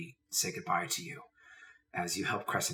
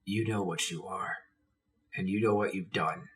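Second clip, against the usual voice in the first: steady someone gently, with pauses; understated soft-spoken firmness; soft reassurance. Acted. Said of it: "speaking very softly to your Crescent".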